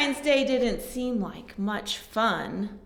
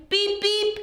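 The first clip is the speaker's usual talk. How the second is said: higher toy truck beep; truck horn beep; 7 semitones higher than usual. Acted. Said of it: "said Blue".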